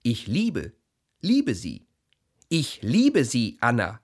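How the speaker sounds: whispering. Acted. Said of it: "Und ich flüstere".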